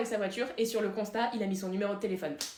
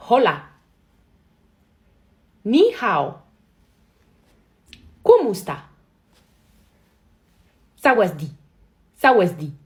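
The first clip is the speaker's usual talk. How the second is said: very loud, punched-out greetings; cris de jeu; 12 dB louder, slower than usual. Real, not acted. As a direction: shout each word at the game. Shouting greetings at a game. (crier très fort, mot par mot)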